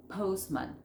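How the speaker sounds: "Postman" as pos-man, no t; silent middle T. Shown as a demonstration. Teacher showing which letter drops, T silent. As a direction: leave out the t of "Postman". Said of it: "La del medio".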